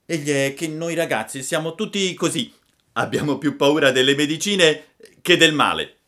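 put-on high, loud childlike explanation; Pinocchio candido. A narrator's reading. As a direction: explain it in an eager puppet voice. (burattino vivace, voce acuta)

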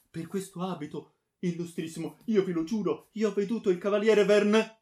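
high, pleading, rising in volume; urgent oath. A narrator's reading. Friar swearing to the baron what he saw, urgent.

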